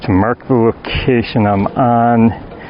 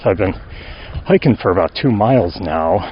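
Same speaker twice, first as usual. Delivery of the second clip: out of breath; 4 semitones lower than usual. Real, not acted. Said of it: "sound out of breath".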